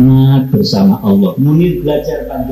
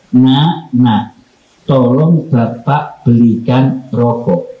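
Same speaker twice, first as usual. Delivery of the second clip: tender call to son; slower than usual. Shown as a demonstration. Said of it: "tapi cara manggilnya beda".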